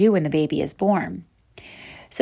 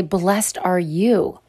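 slow blessing; much slower than usual. Retold or imitated. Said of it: "And they're gonna say".

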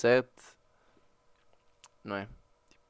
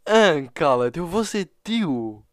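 excited disbelief; 4 semitones higher, 4 dB louder, much slower than usual. Retold or imitated. Reacting to the news.

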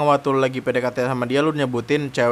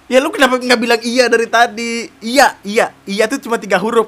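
protes kesal; 5 semitones higher, 4 dB louder than usual. Real, not acted. Kesal kepada cewek.

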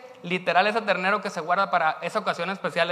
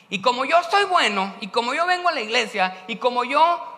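higher, louder smug boasting; a churchgoer bragging about being good; self-righteous; 4 semitones higher, 5 dB louder than usual. Acted. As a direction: puff yourself up as the good one.

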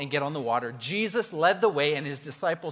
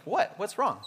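calm; 3 dB quieter than usual. Retold or imitated.

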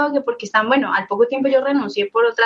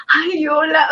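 imitating flustered guys, higher pitched; mock shy, jittery greeting; very nervous; 5 semitones higher, slower than usual. Starstruck guys greeting the actress, mock nervous. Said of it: "como muy nerviosos".

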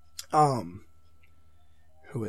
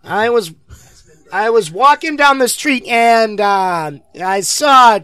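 Donald Trump impression; 8 semitones higher, 9 dB louder, slower than usual. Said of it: "working on a Donald Trump impression".

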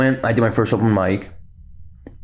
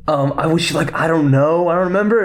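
higher mock-innocent reply; girl's voice, imitated; 5 semitones higher than usual. Trooper girl answering Lando's question, imitated in higher voice. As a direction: lift it high, rising as you answer. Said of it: "And she goes".

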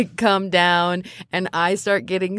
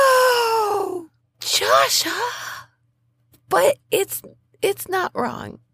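very high, squeaky flustered protest; flustered denial; 9 semitones higher than usual. Acted. Bunny girl flustered her crush was told to the spirit. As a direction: protest in high embarrassment then give in. Embarrassed denial then admission.

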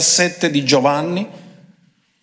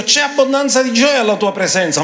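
higher, yearning reading of "C'è abbondanza di gioia alla tua presenza"; lifted, longing voice of Jesus; pleading Jesus voice; 7 semitones higher than usual. Acted.

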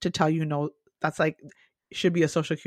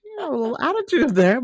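mock attitude; 8 semitones higher than usual. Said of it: "I was like".

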